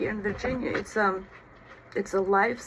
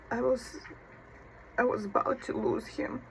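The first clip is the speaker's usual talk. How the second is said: choked up; 3 semitones higher, 5 dB quieter than usual. Real, not acted. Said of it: "it's emotional".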